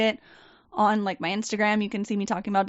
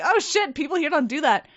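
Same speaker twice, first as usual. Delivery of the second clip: startled realization; 5 semitones higher, 4 dB louder than usual. Retold or imitated. Realizing the new job differs.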